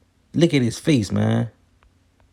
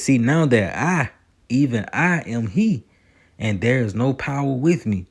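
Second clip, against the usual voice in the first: scripture reading. Acted. Reads Deuteronomy verse aloud.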